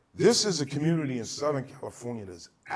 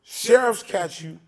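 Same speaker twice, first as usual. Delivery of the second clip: sheriff voice; 5 semitones higher, 7 dB louder than usual. Retold or imitated. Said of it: "That's what they'll ask you".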